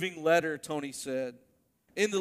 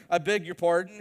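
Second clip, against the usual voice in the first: shocked; 3 semitones higher, 6 dB louder than usual. Retold or imitated. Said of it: "of course, shocked".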